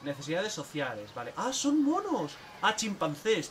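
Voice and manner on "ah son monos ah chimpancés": high, loud burst of discovery; delighted surprise. Real, not acted. Player discovers the enclosure holds chimpanzees, delighted loud surprise. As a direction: exclaim it as it dawns on you.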